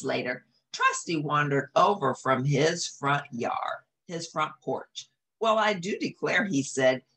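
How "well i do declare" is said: put-on high, old Southern gentleman voice. Old bloodhound greets the dogs, surprised Southern voice. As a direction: exclaim like a courtly old hound.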